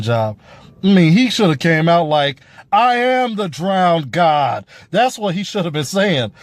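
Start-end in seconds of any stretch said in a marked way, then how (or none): 2.7-4.7 slow, imposing declaration; powerful pirate king. Retold or imitated. Reviewer showing how Euron should have sounded, slow and imposing. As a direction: proclaim it like a god of the sea. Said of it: "he shoulda came out there powerful".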